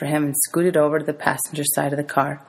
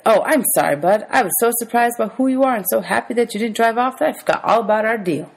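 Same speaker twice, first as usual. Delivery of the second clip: higher, effusive character voice; apologetic man, excited; 7 semitones higher than usual. A narrator's reading. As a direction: gush a sudden apology in a raised voice.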